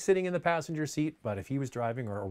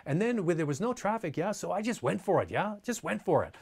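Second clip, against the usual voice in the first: lightly put-on German racer, higher, each phrase tagged with a rising yeah?; a fond, playful take on a charismatic old racing driver, pitched up; playfully mimicking the racer's quirky way of talking, a little higher; imitating Hans Stuck; 4 semitones higher than usual. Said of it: "really cute affectation the way he talks".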